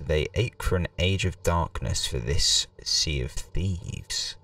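slow, solemn storyteller voice; dramatic reading. Acted. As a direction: read it like an ominous legend. Reads game intro dramatically.

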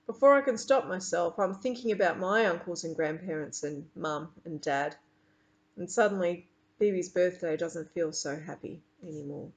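lively read-aloud to a class; reading a story aloud. A narrator's reading. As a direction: read the chapter to the children with expressive character lines. Teacher reads novel aloud.

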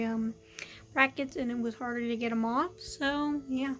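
talking with a retainer in; speech around a retainer; wearing a retainer. Real, not acted. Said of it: "I already have my, um, retainers in".

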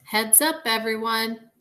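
loud, high call to everyone; yelling. A narrator's reading. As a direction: call out to the whole room. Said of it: "Anna yells".

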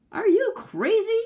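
high, loud yell of disbelief; outraged yell. A narrator's reading. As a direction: yell it as an exasperated wife. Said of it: "yelled the woman".

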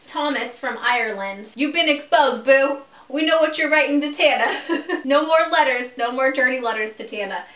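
loud, jeering call-out with a boo; mock call-out. Calling out Thomas from Ireland with a loud mock boo. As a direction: shame him loudly and playfully.

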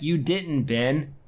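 brushing Ben off curtly; dismissive. Retold or imitated. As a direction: dismiss him without a second thought. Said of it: "very dismissive".

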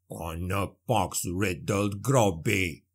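low, slow gruff dwarf snarl. A narrator's reading. Dwarf cursing as he rises from the water, low snarl. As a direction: growl it like an angry dwarf. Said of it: "the dwarf snarled".

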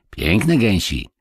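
slow, mildly solemn approval; grave addition. A narrator's reading. Kubuś praises the geese to Marysia, solemnly. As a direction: add it slowly with boyish gravity. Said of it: "dodał Kubuś z powagą".

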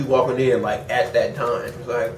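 chewing between words; speaking with chip near mouth; talking while eating chips. Real, not acted. Seen 0: Holds chip while talking, bites it at 2.7-3.1 s.

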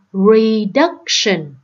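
"reduction" slowly, stressed on DUC; second-syllable stress. Shown as a demonstration. Teacher showing the odd word out, second-syllable stress. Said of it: "là nhấn vào âm thứ hai".

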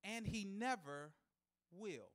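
soft, slow drop on never will; understated line. Acted. Preacher testing the crowd, soft and slow. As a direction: let it fall away quietly. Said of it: "And here's a shout".

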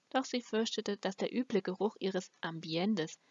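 plain reading voice

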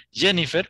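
"Jennifer" with a voiced J; English J. Shown as a demonstration. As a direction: model "Jennifer" as English speakers say it. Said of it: "los países anglosajones".

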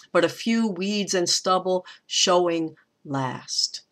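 measured beats on WEEDS, STUBBLE, SHOWING, LAST; scanned stresses. Shown as a demonstration. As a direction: lean on "weeds" and "stubble", "last" set apart. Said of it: "those trochees emphasize the word".

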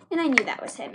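ordinary delivery

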